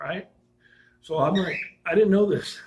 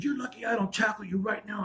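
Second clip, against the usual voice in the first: mildly threatening officer, pitched up; imitated threat in a higher pitch; retold serious threat; 4 semitones higher than usual. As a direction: act out a cop's angry warning. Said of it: "and he was serious".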